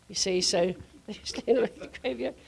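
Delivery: laughing through the words; chuckling as she repeats the line. Real, not acted. Retelling the fallen crowd to the ladies, laughing.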